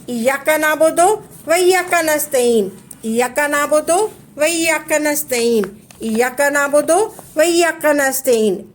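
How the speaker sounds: steady, measured Quranic chant; devotional recitation. Shown as a demonstration. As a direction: recite it as a model for listeners to repeat. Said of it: "ऐसे पढ़ना है".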